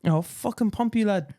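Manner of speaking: a hint of a tough footy player; lightly voiced rough player. Player threatening teammate, lightly voiced rough bravado. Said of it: "I wasn't sure of the Samoan accent".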